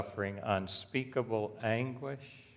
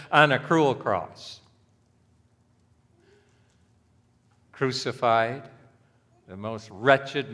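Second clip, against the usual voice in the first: loud, impassioned pulpit delivery; preacher driving home Christ's shameful death, loud and fervent; fiery preaching; 4 semitones higher, 8 dB louder than usual. Acted. Hammer each phrase from the pulpit.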